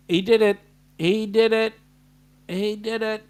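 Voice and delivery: a happy loud outburst, repeated; excited call-out. Real, not acted. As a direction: cheer it out, thrilled.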